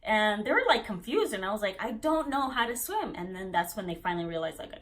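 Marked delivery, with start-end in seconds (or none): 1.8-3.1 higher, emphatic retold plea; exasperated re-enacted insistence; insistent protest. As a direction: spell it out to people who aren't listening. Her repeated protest, retold.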